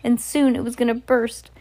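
storyteller reading from a book; story narration. A narrator's reading. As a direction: read the tale aloud with measured drama. Reads a story aloud.

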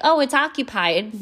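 light, friendly reply through the door; polite "occupied". Retold or imitated. To someone pounding on the bathroom door, mildly polite. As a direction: politely tell the knocker it's taken. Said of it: "Nice the first time".

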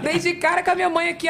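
normal talking voice

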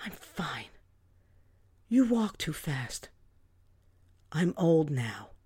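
slow, low, tired denial; weary mother brushing it off; dismissive mother. A narrator's reading. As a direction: wave off the worry wearily.

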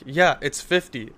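slow, curt mock retort to the cop; snippy reply. Driver answers cop with slow curt sass. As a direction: drag it out like a grudging smart answer. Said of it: "That's, like, how I was talking to him".

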